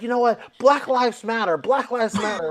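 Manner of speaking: a hint of zonked defiance; drunk roommate. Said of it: "she answers it drunk".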